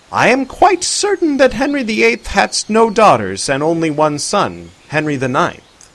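a hint of a jovial old-fashioned man; lightly voiced Arthur. A narrator's reading.

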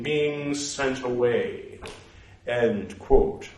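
measured reading aloud, naming every punctuation mark; steady recital voice; scripture recital. Acted. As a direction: recite it like a formal text. Resumes the recital.

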